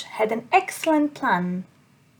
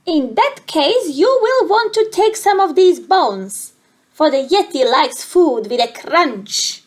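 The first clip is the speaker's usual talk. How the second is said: offended monster giving advice; 3 semitones higher, 3 dB louder than usual. Acted. Monster voice held in dialogue.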